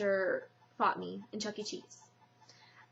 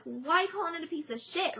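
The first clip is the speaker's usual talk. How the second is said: upset; 6 semitones higher than usual. Retold or imitated. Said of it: "I got kind of upset".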